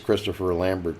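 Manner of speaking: Lambert said Texas style, LAM-bert; Texan accent. Pretend. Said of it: "Or as we say in Texas".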